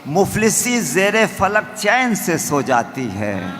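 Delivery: measured, declaimed verse; stately nazm recitation. Acted. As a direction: recite to the audience with weight.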